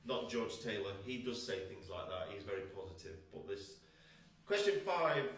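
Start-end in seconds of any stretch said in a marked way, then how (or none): 4.5-5.2 loud announcement. Acted. Announcing question loudly.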